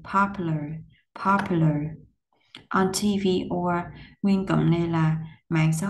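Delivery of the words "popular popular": "Popular" as POP-u-lar, dropping on "lar"; falling last syllable. Shown as a demonstration. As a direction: say "Popular" twice, voice falling at the end. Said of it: "xuống giọng". (Popular xuống giọng ở vần cuối)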